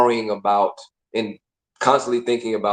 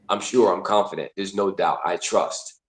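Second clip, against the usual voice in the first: low, settled statements of self-assurance; certain, confident; 4 semitones lower, 3 dB quieter than usual. Acted. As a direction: act out quiet certainty, dropping lower.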